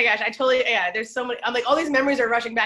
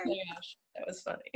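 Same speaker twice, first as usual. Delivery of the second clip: breathless laughter; 5 semitones higher, 12 dB quieter than usual. Real, not acted.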